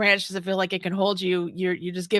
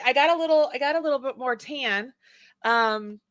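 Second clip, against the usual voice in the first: ordinary delivery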